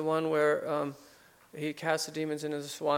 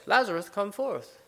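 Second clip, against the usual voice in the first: slow, higher call, only slightly raised; mild retold cry; 4 semitones higher than usual. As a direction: draw out the command as a restrained calling-out. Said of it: "Jesus cried in a loud voice".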